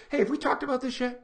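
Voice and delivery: casual, unthreatening check-in; gentle friendly question. Shown as a demonstration. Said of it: "what if you said it like this?".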